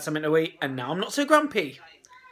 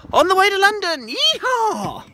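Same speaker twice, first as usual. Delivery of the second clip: high, loud cheer of delight; excited whoop; 13 semitones higher, 7 dB louder than usual. Real, not acted. Heading off to London in the car, a high loud yeehaw. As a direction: whoop it out like a cowboy.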